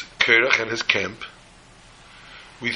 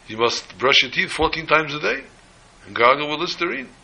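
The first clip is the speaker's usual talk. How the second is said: higher, rising tone of mock admiration; flattering wolf; 4 semitones higher than usual. Wolf praising the lion's breath, high admiring flattery. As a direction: flatter the king, lifting each phrase upward.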